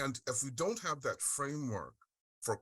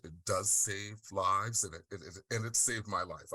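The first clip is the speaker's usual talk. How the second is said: emotional. Real, not acted. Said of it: "I'm sorry if I'm getting, um, emotional".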